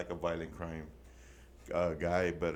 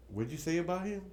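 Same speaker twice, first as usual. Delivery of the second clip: mock guard accusation; 9 semitones higher than usual.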